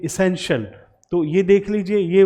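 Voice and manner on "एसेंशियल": एसेंशियल as "i-SEN-shul"; correct pronunciation. Shown as a demonstration. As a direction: say एसेंशियल with a short "shul" ending. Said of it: "हम बोलेंगे".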